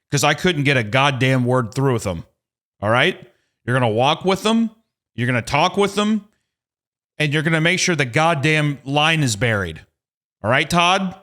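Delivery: high-pitched insistent instructions; mock heated. Customer instructing technician Todd about the trenchers, mock heated. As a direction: drill the orders in, rising with each one. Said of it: "I know I'm getting heated".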